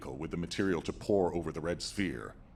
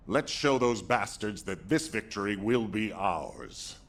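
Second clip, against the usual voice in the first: slow, emphatic battle rally; rally the troops, drawing the words out; rousing rally; 3 semitones higher, 3 dB louder, slower than usual. Acted.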